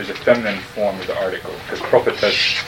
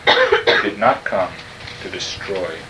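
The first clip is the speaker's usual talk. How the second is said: slow emphatic reading; slower than usual. Shown as a demonstration. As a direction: read it slowly, weighing each word. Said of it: "the stress is on not".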